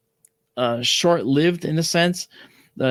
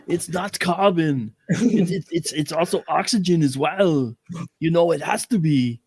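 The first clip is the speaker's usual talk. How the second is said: mock robot voice; 3 semitones higher than usual. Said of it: "imagine doing a whole show like that".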